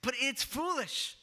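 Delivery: scornful jab at the faithful; mocking scoff. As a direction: sneer it like a sceptic mocking believers. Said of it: "That's how they would say it".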